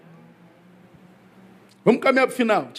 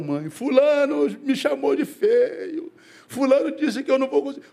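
mock childish whine, pitched way up; tattling child's yell; 10 semitones higher than usual. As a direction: imitate a child wailing to mom about someone. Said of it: "A criança grita logo".

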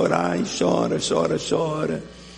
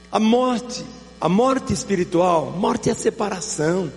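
fervent preaching; 6 semitones higher than usual. Acted. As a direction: build the sermon with rising fire. Prega com força crescente. (pregação fervorosa, mais aguda e forte)

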